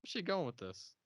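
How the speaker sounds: squeaky high disbelief; high mock confusion at the screen; baffled. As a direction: ask it in shrill confusion. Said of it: "I'm like".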